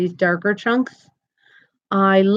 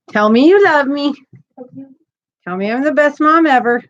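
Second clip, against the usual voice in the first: playful demand; 4 semitones higher, 5 dB louder than usual. Pretend. Demanding praise from son.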